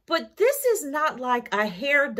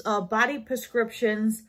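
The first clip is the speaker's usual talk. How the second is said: New York accent. Real, not acted. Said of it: "my New York accent came out there".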